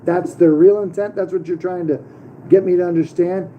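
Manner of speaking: incredulous retelling. Retold or imitated. Retold argument with birth records clerk.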